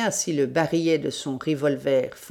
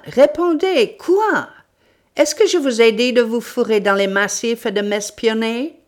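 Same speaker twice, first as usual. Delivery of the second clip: loud, high furious scolding; angry tirade; 6 semitones higher, 7 dB louder than usual. Acted. Sholmès scolding the friend who spied on him, angry shouting. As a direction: rage at him and demand answers. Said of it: "envahi d'une colère".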